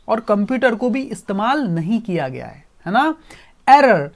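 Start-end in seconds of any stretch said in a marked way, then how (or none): 3.7-4.1 slow, loud robot alarm; robot calling out the error, loud and slow; robot shouting error. Acted. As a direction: blare it like a machine alarm. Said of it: "ऐसा robot चिल्लाने लग गया".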